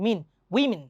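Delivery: "উইমেন" starting "wi" and ending "min"; plural women pronunciation. Shown as a demonstration. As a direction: say "মিন", then "উইমেন" as "WIM-in". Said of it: "ম্যান না কিন্তু".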